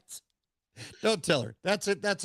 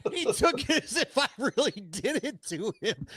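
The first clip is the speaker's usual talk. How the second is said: laughing; 6 semitones higher than usual. Real, not acted. Laughing while telling.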